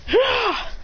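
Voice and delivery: high battle yelp; attack cry. Acted. Lucario hitting it hard, high attack cry. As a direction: cry out as the blow lands.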